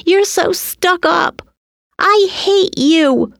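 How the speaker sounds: put-on high, resentful kid's yell; angry shout. A narrator's reading. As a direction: yell it high at a stuck-up sister. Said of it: "Tina shouted at the dress".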